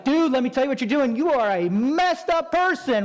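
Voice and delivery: high, loud, fast scolding dude voice; mock angry critic. Critic at the gym scolding a lifter, mock angry rant. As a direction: lecture him like a know-it-all. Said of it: "the other guy that's like".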